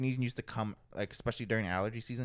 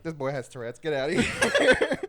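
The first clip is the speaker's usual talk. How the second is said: mock teacher; 3 semitones higher, 5 dB louder, slower than usual. Teachers voiced in retold scene.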